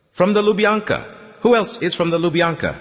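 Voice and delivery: high, urgent call. Acted. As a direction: call out to find the others. Calls out among the wounded.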